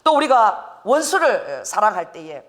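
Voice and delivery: normal talking voice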